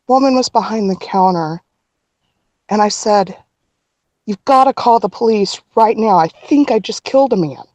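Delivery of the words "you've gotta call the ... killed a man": urgent retelling of a panicked plea; retold panic. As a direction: relive the frantic plea, only mildly hysterical. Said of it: "clearly I'm hysterical".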